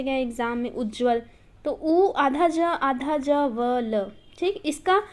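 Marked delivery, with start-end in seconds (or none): 1.7-4.0 slow letter-by-letter spelling with pauses. Shown as a demonstration. Teacher helping students remember the spelling, slow spelling out. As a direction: spell it out unhurriedly, one letter at a time. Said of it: "याद करने का तरीका".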